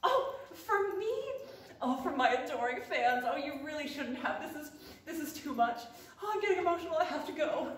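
a star receiving gifts from adoring fans, hammed-up; mock emotional star. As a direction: overplay the overwhelmed diva. Mock gift receiving, getting emotional.

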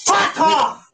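angry outburst rising to a shout; getting angry. Real, not acted. Cutting off a heckler who interrupts, angry. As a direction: assert yourself, then yell them off. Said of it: "why are you getting angry".

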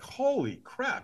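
high, slow, drawn-out exclamation; stunned. Retold or imitated. Storyteller reacting to the ticket price, stunned. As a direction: stretch it out in acted shock.

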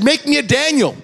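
fervent prayer. Retold or imitated. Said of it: "I said".

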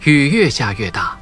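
ordinary delivery

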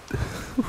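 short breathy laugh; a quick laugh slipping out; brief laugh. Real, not acted. Boyfriend laughing at her worry, short breathy laugh. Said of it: "I didn't mean to laugh".

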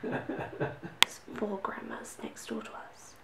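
slow whisper through a giggle; laughing whisper. Real, not acted. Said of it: "I'm whispering".

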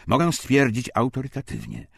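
ordinary talk, nothing marked

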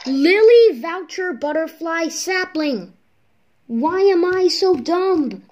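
slow, loud self-frustration; frustrated. Real, not acted. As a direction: scold yourself out loud. Frustrated at own mistake.

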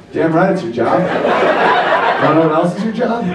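low, laughing, swaggering man; a hammed-up smug husband; cocky husband. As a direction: boast it with mock pride. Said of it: "I'm like".

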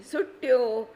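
put-on little boy calling from the cellar; loud call. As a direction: call it out across the house. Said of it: "पुन्हा आरोळी आली".

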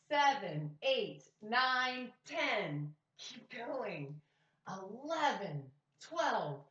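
slow counting aloud with a class; teaching a child to count. Shown as a demonstration. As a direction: count steadily, each number clear. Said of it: "Can you help me?".

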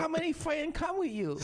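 put-on high-pitched caricatured Asian accent; exaggerated Asian-accented English; mock Asian accent. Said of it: "most racist Asian accent ever".

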